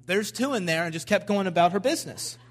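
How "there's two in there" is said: casual, unbothered delivery; matter-of-fact. Retold or imitated. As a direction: state it plainly, like routine business. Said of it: "plain as day".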